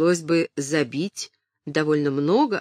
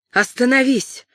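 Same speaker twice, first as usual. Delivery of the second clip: commanding shout; 3 semitones higher, 3 dB louder than usual. Acted. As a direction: command him in the duke's name. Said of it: "закричала она".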